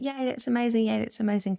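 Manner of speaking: high, lightly gushing congratulations; mock family cheering. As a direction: imitate relatives cheering in a chat. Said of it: "everyone on the family chat and Messenger was like".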